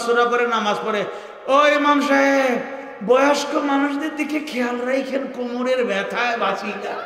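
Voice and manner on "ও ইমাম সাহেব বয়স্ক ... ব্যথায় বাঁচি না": put-on complaining old man. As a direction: mimic an aching elder begging the imam. Complaining elder imitated. (কোমরব্যথায় কাতর মুরব্বির অভিযোগের সুর)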